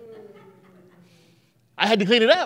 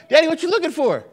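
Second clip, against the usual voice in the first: higher, louder, giggling question; laughing kid tease; 5 semitones higher, 6 dB louder than usual. Retold or imitated. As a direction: poke fun at dad through laughter. Child teasing dad, laughing.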